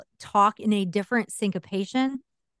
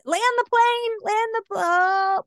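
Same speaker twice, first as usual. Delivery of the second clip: inner voice; 12 semitones higher than usual. Retold or imitated. Radio brain urging to wrap up.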